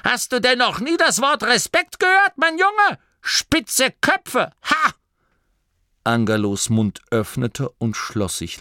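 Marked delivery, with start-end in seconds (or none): 0.1-4.9 high, louder granny voice; sharp old grandmother rebuke; scolding old woman. A narrator's reading. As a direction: tell the cheeky boy off. Oma Morky scolds Angelo.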